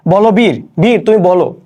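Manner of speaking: measured, rousing call to the hero; poem recitation. Shown as a demonstration. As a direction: declaim it like the poet calling a hero. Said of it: "কবি আহ্বান করতেছে যে".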